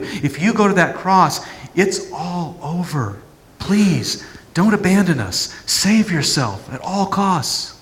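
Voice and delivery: pleading disciples. Acted. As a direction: beg him not to leave you. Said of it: "that peer group".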